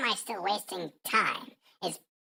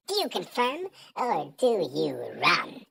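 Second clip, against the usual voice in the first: ordinary talk, nothing marked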